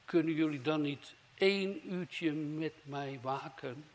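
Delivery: lightly voiced Jesus, slow, pleading; a hint of Jesus asking his sleeping disciples; Jesus calling out. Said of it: "riep hij". (Jezus die zijn discipelen roept, licht gespeeld)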